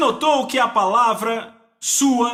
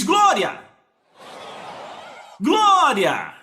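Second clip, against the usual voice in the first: imitated high outburst of praise; sudden raised cry, falling away; noisy shouting; 3 semitones higher, much slower than usual. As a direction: blurt out glória like a noisy man. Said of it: "era um cara barulhento".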